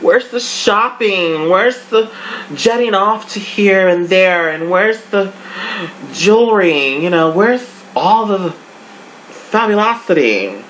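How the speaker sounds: high, loud exasperated mock complaint; bored indignant rant. Vlogger complaining to the show about missing shopping, high exasperated rant. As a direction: whine for the glamour that's missing. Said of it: "I was like".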